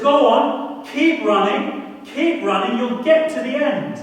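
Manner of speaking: loud, high shouted encouragement; Mo Farah shouting. Retold or imitated. Mo Farah shouts at the runner to keep going. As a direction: roar them on like a champion. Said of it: "And he says".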